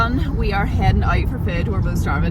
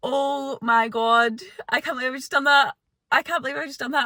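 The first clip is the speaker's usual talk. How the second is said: real post-race disbelief; amazed disbelief; 5 semitones higher than usual. Real, not acted. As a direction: marvel at your own achievement. Disbelief at having hit the goal.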